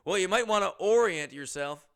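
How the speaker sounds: loud, hammed-up imitation; loud quoted pun. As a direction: belt it out as the man's corny pun. Re-enacts the bagger's pun, incredulous.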